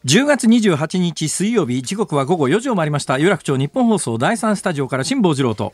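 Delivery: measured on-air station call; radio announcer. Acted. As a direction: read the time check like a radio host.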